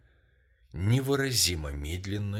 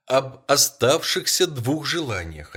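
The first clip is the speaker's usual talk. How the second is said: higher, louder and slow, each word weighed; eager reply; 5 semitones higher, 6 dB louder than usual. A narrator's reading. Wife tells her husband about the two wishes, eager. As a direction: lean hard on the words, eager. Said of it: "отвечала она".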